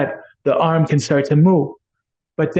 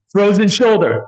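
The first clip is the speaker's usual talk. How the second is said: higher and louder, bursting out the diagnosis; excited blurt; 5 semitones higher, 4 dB louder than usual. Retold or imitated. Healer blurting the diagnosis to a new client, excited. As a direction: blurt it out, thrilled to recognize it. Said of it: "I got so excited".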